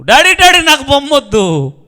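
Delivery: high, loud tearful plea; crying plea. Acted. Son refusing the toy, clinging to his father and crying. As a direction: beg through tears like a small child. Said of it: "పట్టుకొని ఏడ్చాడు".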